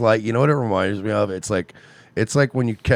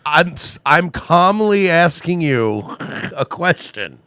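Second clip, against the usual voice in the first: calm through laughter; 6 semitones higher, 4 dB louder, slower than usual. Retold or imitated. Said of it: "and you're like".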